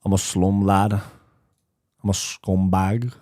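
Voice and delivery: put-on slow drawn-out Scouse accent. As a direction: stretch the Liverpool accent out slowly. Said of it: "Scouse accent".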